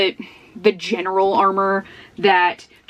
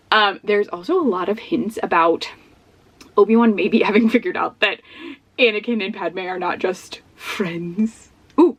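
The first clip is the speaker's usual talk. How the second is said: normal talking voice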